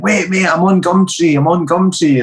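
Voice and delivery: high pleading junkie voice; pleading thief. Retold or imitated. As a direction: beg him not to swing the bat.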